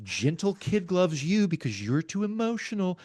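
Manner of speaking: slow, soft, falsely patient calm with a breaking laugh; quiet condescending calm. Retold or imitated. Arguing with emotional people, mocking his own quiet calm. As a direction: handle them like a fragile child, gently. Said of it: "my default is to get real quiet and calm".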